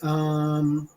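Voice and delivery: long droning "um" on one note; imitated monotone filler; mocking filler um. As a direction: drag out a mock hesitation. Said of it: "and pick up the".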